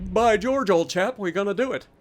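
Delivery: put-on deliberately hammy British accent; mock British, lightly overdone; bad British accent. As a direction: put on a terrible old-chap British voice. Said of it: "the worst British accent I could possibly muster".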